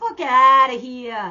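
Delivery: New Jersey accent. Reading advice from a card that says to use an accent: new jersey accent. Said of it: "Say it in a New Jersey accent".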